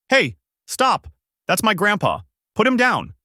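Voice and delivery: high-pitched, protesting narrated yell; urgent yell. A narrator's reading. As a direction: call out high and urgent to stop her. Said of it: "Goku looks up at her and yells out".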